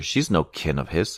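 plain

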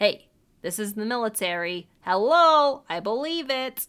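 put-on loud, booming, cute little rural Massachusetts accent. Quoting the gas station owner's words in a rural Massachusetts accent. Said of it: "in his cute little rural Massachusetts accent".

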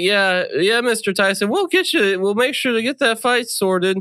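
put-on very high, cracking teenage voice. Showing how a character they voice sounds, in a voice-cracking teen voice. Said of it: "caricature of high school Chase's constant voice cracking".

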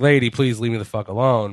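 usual speaking voice

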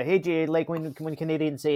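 ordinary delivery

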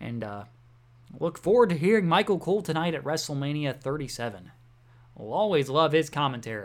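heavy sarcasm in a low tone. Tell listeners about hearing Michael Cole at WrestleMania, sarcastic. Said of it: "if you can't hear the sarcasm in my voice".

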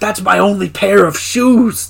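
furry puppet-monster character voice. Retelling a scene about ruined shoes in the voice of Kevin. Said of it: "we impersonate Kevin's voice now".

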